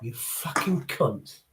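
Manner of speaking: slow, quiet, menacing swearing; aggressive. Shown as a demonstration. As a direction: drag the insult out low and soft. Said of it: "I'm being aggressive".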